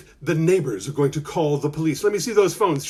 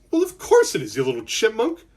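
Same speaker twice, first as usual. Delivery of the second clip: fond mom; 5 semitones higher than usual. Acted. Mom reassuring her small son.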